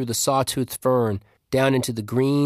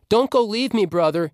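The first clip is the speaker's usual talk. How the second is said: frightened cry; 9 semitones higher than usual. A narrator's reading. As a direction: beg him not to leave, voice jumping up in fear. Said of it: "he cried".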